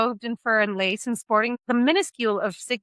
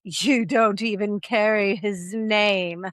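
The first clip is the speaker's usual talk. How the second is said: mock royal baby; much slower than usual. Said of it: "the baby replies".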